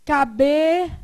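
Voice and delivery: "Cabeleireiro" loud, in separated chunks with both ei sounds full; careful spelling pronunciation. Shown as a demonstration. Teacher dictating the written form, loud separated syllables. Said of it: "o que que a gente faz?".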